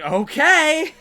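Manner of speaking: high, loud yes-boss reply; hammed-up "yes boss"; mock obedient. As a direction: play the eager lackey. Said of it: "Jungle Boy's like".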